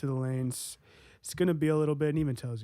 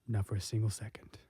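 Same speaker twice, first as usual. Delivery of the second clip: stern whisper; hushed warning; 4 semitones lower, 6 dB quieter than usual. Acted. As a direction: press it low and urgent.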